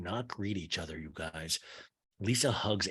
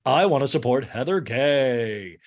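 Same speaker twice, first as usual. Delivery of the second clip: loud, slow, showy proclamation; hammed-up show of support; mock declaration; 3 semitones higher, 6 dB louder, slower than usual. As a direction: proclaim it grandly, stretching the words. Acts out Lisa's showy declaration.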